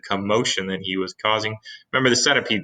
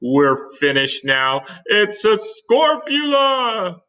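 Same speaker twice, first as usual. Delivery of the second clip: panicked cry; 11 semitones higher, 6 dB louder, much slower than usual. Acted. Fire chief panics.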